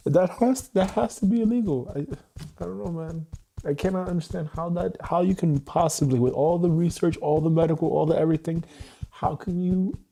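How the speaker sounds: can't believe it, voice pushed up and loud; exasperated disbelief. Real, not acted. Father angry about short visits with daughter, outraged disbelief.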